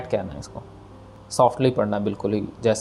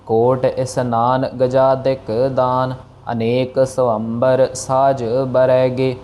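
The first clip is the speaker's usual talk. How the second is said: slow, drawn-out chanting of the verse; slow verse recitation; much slower than usual. Shown as a demonstration. Teacher reciting the line slowly for students. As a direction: recite each word slowly and clearly. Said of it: "teacher recites the verse".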